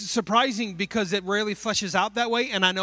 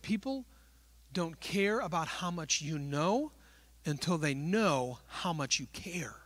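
whispered saying; 3 semitones lower, 8 dB quieter than usual. Real, not acted.

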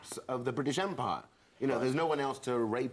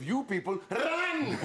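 high call with a long, falling "run"; exclaimed RUN; 9 semitones higher, slower than usual. Acted. Comic replaying adviser's offensive line, drawn-out yelled "run". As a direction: stretch "run" into a high mock yell.

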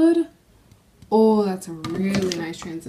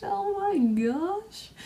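awed and hushed; 9 semitones higher, 5 dB quieter, much slower than usual. Real, not acted. Admiring the swatch.

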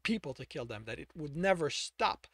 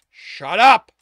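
screamed at full volume; furious scream; 8 semitones higher, 20 dB louder than usual. Acted. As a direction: explode and drown him out. Brother keeps taunting.

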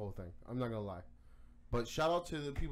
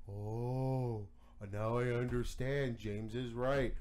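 mock convert; 3 semitones lower, much slower than usual. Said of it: "everybody would be like".

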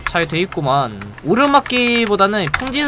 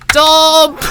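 loud high shout of 점프!; shouted skill call; 9 semitones higher, 8 dB louder, much slower than usual. Real, not acted. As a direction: yell the skill name out. Calling out skill in game. (스킬 이름을 크게 외치기)

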